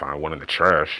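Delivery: low mutter under the breath. Voicing a character who answers a question rudely, muttering under breath. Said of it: "Noel says under his breath".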